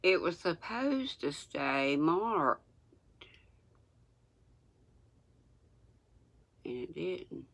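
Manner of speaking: reading without teeth in; gummy toothless speech. Real, not acted. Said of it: "I'm gonna sound crazy reading without my teeth".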